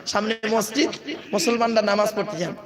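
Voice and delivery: ordinary talk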